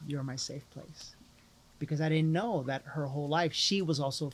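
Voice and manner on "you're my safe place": softer tender echo. Retold or imitated. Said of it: "She says".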